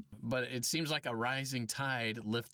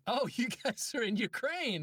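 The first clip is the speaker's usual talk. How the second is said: much higher, retold shock; startled realization; 12 semitones higher than usual. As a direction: act out a sudden dismayed realization. Retells his shocked reaction to client.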